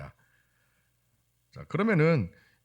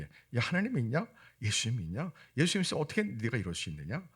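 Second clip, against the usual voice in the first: higher, fast retold jeering; mocking; 7 semitones higher, faster than usual. Unbelieving family needles the Christian relative, mocking. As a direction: fire off needling questions as a scornful relative. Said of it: "안 믿는 가족들이 그렇게 조롱하고".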